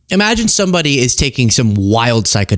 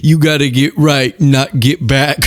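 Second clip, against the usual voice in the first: put-on Doctor Phil accent. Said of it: "what did he say".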